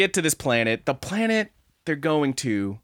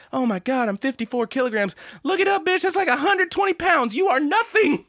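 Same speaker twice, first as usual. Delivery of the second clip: put-on bratty anime girl; 14 semitones higher than usual. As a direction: lord it over someone. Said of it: "she's like".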